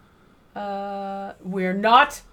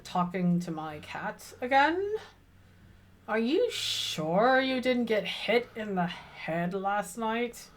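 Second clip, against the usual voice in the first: dry teasing; 4 dB quieter, slower than usual. Acted. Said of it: "I say".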